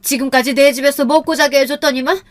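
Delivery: high-pitched outrage building to a shout; enraged mother-in-law. A narrator's reading. Mother-in-law after slapping daughter-in-law, enraged. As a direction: rage at her, ending loud.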